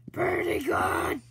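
slow, hushed whisper. Shown as a demonstration. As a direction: breathe it out as a whisper. Repeats it as a whisper.

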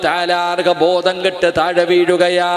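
loud, sing-song sermon cadence; full-force preaching. Acted. Preacher telling Nafeesa's story to the women, loud sing-song preaching.

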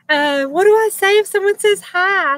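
nervous child's question, lightly voiced; imitating nervous Jaylee. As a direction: mimic a shy child asking for help. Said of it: "Jaylee's like".

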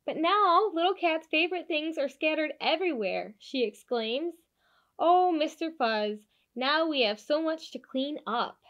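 put-on lively storybook narration for kids; animated picture-book read-aloud; reading to children. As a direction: read it like bedtime story time.

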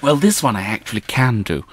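mild Queen's English; posh English. Acted. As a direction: speak like a well-bred lady. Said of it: "Queen's English".

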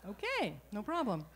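laughing. Retold or imitated. Speaker answers mother, laughing.

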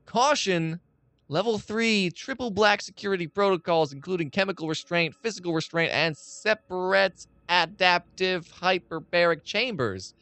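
document read-aloud. Acted. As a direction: read it out like a security notice. Reads an in-game document aloud.

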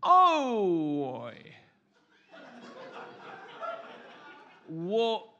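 loud Aussie with long gaps between words; Australian character. Acted. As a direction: labour each word in a fake Australian accent. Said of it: "I will play ... an Australian".

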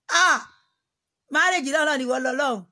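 loud high cry of shock, then loud indignant words. Acted. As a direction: gasp out loud at the proposal. Acted reaction to a marriage proposal.

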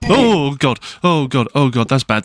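panicked at what's ahead; fading alarmed groans. Real, not acted. Spots danger in cave.

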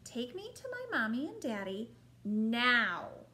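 loud bossy demand; little princess. Acted.

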